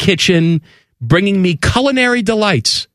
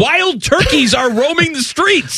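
high-pitched, rapid disbelief; incredulous rant; 11 semitones higher than usual. Acted. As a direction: rant in baffled outrage, voice way up. Worked-up rant at the columnist.

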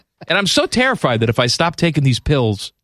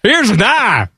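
hammed-up Aussie bloke showing off a knife; bad Australian accent; 10 semitones higher than usual. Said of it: "It's a horrible accent".

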